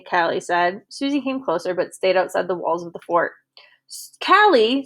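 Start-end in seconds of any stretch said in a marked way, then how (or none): 3.9-4.8 high, loud cry of her name. A narrator's reading. Girl crying out to her old friend, high and loud. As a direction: call out to her, overjoyed. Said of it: "Susie cried".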